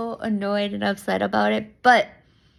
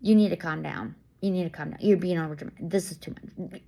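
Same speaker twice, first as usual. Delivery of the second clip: mock scolding; 5 semitones lower, faster than usual. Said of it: "have someone next to you say".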